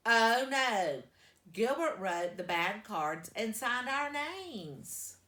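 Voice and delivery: loud alarmed shout. A narrator's reading. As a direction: shout it out in panic. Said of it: "Then he shouted".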